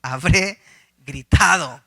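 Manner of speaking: slow dread, starting under the breath; a hushed sigh, then slow dismayed wondering; retold alarm, drawn out. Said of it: "me asusté yo".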